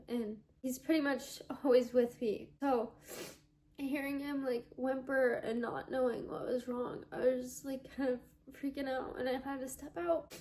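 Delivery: holding back tears. Real, not acted. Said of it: "I'm gonna start crying".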